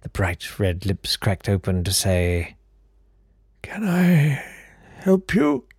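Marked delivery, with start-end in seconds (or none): 3.6-5.7 put-on very high, airy old gentleman; fluting count voice. Old count answering the door, very high fluting voice. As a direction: pipe up like a fussy old aristocrat.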